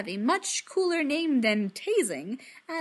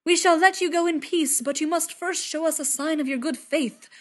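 booming Thor voice; 5 semitones higher, 6 dB louder than usual. Acted. Thor's formal loud decree.

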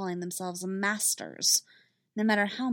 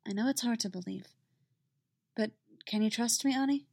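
quiet reassurance; 2 semitones higher than usual. Acted. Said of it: "she says quietly".

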